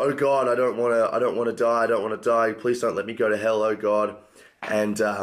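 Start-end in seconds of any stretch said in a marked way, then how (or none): none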